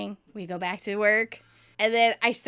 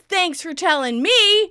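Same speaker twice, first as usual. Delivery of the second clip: louder, slow, sarcastic reproach; mock hurt anger; 8 semitones higher, 10 dB louder than usual. Joey hurt that Chandler never told him, mock angry. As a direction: sulk it sarcastically. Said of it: "getting a bit angry".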